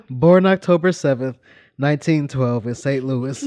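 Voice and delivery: reading through giggles; cracking up mid-sentence; trying not to laugh. Real, not acted. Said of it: "I'm trying to be serious here".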